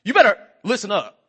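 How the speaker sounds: mock stern warning in a child's words; bossy child's warning. Eight-year-old girl warning a grown-up, bossy. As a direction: imitate a little boss putting someone on notice. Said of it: "that's the way she talks".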